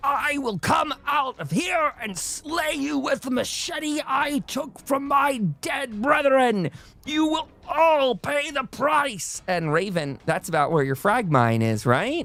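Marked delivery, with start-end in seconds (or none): 0.0-9.4 very high, yelled, shouted villain voice. Voicing an enemy walking toward the shore, yelling threats. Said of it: "he yells".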